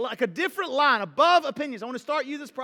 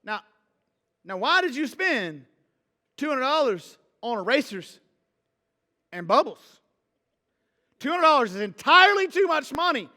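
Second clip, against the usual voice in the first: worked up; 3 semitones higher, 4 dB louder than usual. Acted. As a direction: build from a pointed question to an exasperated outburst. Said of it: "I'm all worked up".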